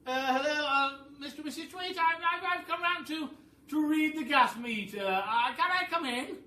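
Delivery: high, loud, stammering gas man; nervous Fred. Acted. Gas meter reader Fred at the door, nervous stammer. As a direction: hesitate politely like a shy caller. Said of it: "I shall now be Fred".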